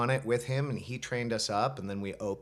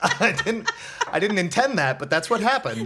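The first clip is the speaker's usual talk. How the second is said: laughing through words; 9 semitones higher, 7 dB louder than usual. Real, not acted. Laughing at his own accidental voice.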